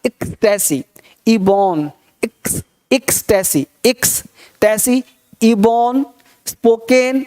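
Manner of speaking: repeat-after-me drill. Shown as a demonstration. Teacher leading learners to say along, drill delivery. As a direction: separate model words with gaps. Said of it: "मेरे साथ बोलते रहना है".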